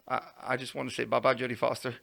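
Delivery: mildly tongue-tied, stammered start; retold starstruck freeze. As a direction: act a little locked up. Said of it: "And I lock up".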